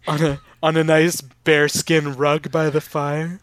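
slow, throaty seductive voice; throaty vixen voice. Acted. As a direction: purr it out slowly like a vixen. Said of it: "Throaty vixen voice is back".

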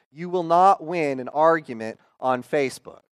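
slow, each word spelled out; over enunciating. Shown as a demonstration. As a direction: say it slowly and deliberately, stressing not. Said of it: "let me say this slowly".

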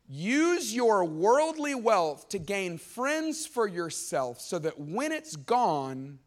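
slow, drawn-out reading of a verse; stretched, deliberate Bible reading; scripture reading. Acted. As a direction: read the verse out slowly, weighing each word. Reads the verse again.

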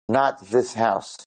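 slow, measured retold warning; solemn warning. Old lady warns soldiers at the door, solemn. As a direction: space the words out to stop them.

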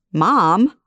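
mildly hurt, indignant protest. Acted. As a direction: mom storming off, indignant. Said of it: "she says indignantly".

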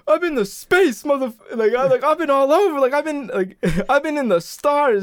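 high-pitched mock boasting rant; indignant outburst, played for laughs; retold angry yelling. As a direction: imitate a man losing it at kids. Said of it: "he starts yelling at and getting into it with kids".

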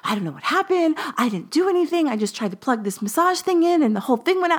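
high-pitched panicked rush from mom; frantic mom. Retold or imitated. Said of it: "like, frantic".

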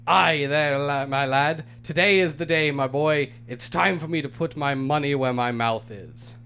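grand, theatrical storybook narration; hammed-up aristocratic letter voice; pompous letter reading. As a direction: read it like a self-important lord. Reads listener letter aloud.

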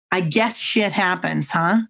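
slow, offhand mock of the remark; careless prime minister. Prime minister at the soldier's memorial, slow and offhand. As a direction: shrug it off slowly and lightly.

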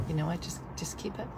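near-whispered resignation; resigned. Retold or imitated. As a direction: drop the voice, giving up. Defeated giving up retold.

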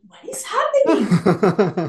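slow, laughing what-is-happening; laughing disbelief. Retold or imitated. Feeling filmed in a Truman Show, slow laughing disbelief. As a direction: laugh through the question, dazed.

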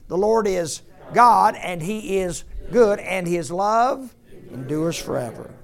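high, loud, slowed proclamation; loud congregational call. Real, not acted. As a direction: proclaim it so the whole church joins in. Restarts recitation so everybody joins.

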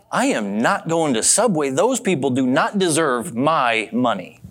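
emphatic retold grudge, slowing down; indignant refusal. Customer nursing a grudge against Subway, mock indignant. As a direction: lean on each word as if swearing off the place.

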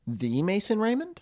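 high, disbelieving "The Mason Raymond?"; incredulous high question. Real, not acted. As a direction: ask it in total disbelief. Stunned at roster.

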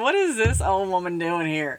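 mock the old newcomer; sneering young skaters. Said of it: "I'm sure they were like".

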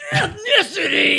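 loud high shout. Acted. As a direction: belt it out. Echoes joke, shouting.

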